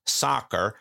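brief slip into mock American accent; generic American accent. Talking of US investors, in a generic American accent. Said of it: "I apologise, generic American accent".

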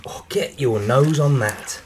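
slow, savoring wine snob tone; sommelier voice. Acted. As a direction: sniff it like a pretentious sommelier. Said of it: "I like the way you're talking like a som".

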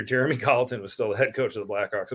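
stifling a laugh mid-sentence; holding back giggles; trying not to laugh. Real, not acted. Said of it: "I'm sorry, I'm trying not to laugh".

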